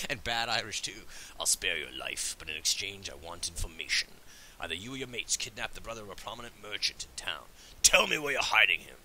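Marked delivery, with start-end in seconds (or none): 1.4-9.0 lightly voiced commanding orc; orc interrogator. Plays orc answering the robber.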